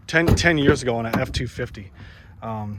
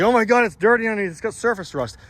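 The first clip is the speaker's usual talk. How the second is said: mock amazed onlooker; 6 semitones higher, faster than usual. Mocking amazed people.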